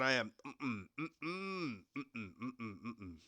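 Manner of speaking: low, hushed disbelief; teacher mourns his smashed phone; teacher upset over phone. Retold or imitated. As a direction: tut over the broken phone. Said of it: "oh, my God".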